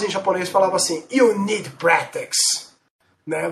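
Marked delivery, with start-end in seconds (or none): 1.1-2.7 slow, robotic synthesized voice; old speech synthesizer. Retold or imitated. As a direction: imitate a retro game voice. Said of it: "Uma voz sintetizada".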